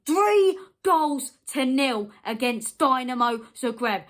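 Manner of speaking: furious fan driving the score home. Real, not acted. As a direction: hammer the scoreline home, slow and loud. Scoreline repeated in anger.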